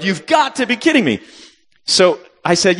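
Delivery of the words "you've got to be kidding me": retold yell. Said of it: "when I yelled".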